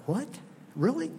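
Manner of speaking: Kentucky-free sudden high "Really?"; surprised. Retold or imitated. Pastor retelling his surprise at the farmer, surprised. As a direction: jump up in pitch, caught off guard.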